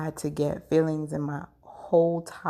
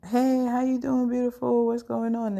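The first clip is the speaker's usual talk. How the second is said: bright mom greeting, pitched much higher and louder; cheery mom; 8 semitones higher, 3 dB louder than usual. Retold or imitated. Mom answering her daughter's call, cheery and high. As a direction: sing out a happy hello like a mother. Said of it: "she's like".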